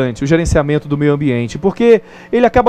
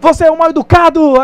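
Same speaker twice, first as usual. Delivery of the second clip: put-on much higher and louder, an angry child; irritated shout; 10 semitones higher, 4 dB louder than usual. Irritated boy shouts an insult into the valley. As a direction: yell it at the rude stranger. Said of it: "ele fica irritado e grita".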